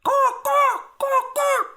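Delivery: very high, loud bird caws; raven cawing. A narrator's reading. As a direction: caw like a raven. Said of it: "She was cawing".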